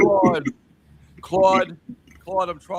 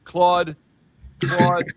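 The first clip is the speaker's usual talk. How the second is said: louder, insistent repeated calling of the name; mock Bernie pleading; 4 semitones higher, 5 dB louder, slower than usual. Mocking Bernie calling on the chatbot, loud and insistent. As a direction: nag the chatbot by name over and over, cracking up at the end. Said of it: "And he's like".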